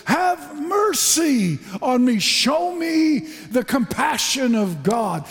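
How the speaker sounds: high, slow plea for mercy; a hint of a desperate beggar; pleading cry. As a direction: beg humbly. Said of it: "all that he thought to do was say".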